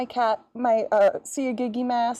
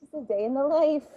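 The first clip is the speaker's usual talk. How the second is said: sassy line; 4 semitones higher than usual. Shown as a demonstration. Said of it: "You need to be sassier".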